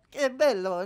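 gushing Italian aunt, high and loud; delighted cheek-pinching relative; doting relative. Retold or imitated.

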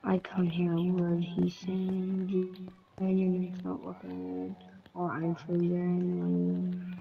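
whispering. Real, not acted. Whispered lag complaint.

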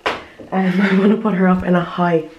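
breathless after climbing stairs; panting a little between words; out of breath. Real, not acted. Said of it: "I'm out of breath after going up the stairs".

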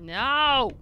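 loud yell of refusal; alarmed cry. Real, not acted. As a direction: cry out in protest. Panicking at a game threat.

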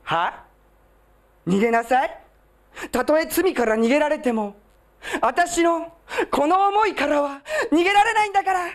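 dramatic lovelorn woman, voice breaking at end; melodramatic tearful lover. Acted. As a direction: play a jealous lover detective, near tears. Detective romance roleplay.

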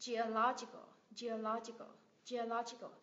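"Geological" as geo-LO-gi-cal; teacher's model of "geological", stress on LO; stress on third-last syllable. Shown as a demonstration. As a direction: lean on LO in "geological". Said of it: "Nhấn âm tiết từ ba từ cuối trở lên".

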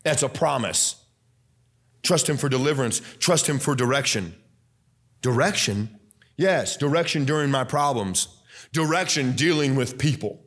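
fervent preacher's delivery; preaching. Acted. Preaching at full force again.

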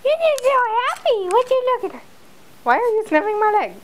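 high cooing pet voice; sing-song doggy talk. Real, not acted. Cooing baby talk to the dog.

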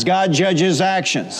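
slow, every word weighed; slow emphatic statement. Shown as a demonstration. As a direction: lay it down slowly for the church to repeat. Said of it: "say it out loud three times".

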